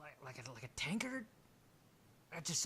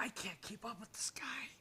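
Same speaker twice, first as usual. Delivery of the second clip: higher, slurred; drunk voice; 9 semitones higher, 4 dB quieter than usual. Acted. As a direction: groan like a beaten drinker. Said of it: "he goes".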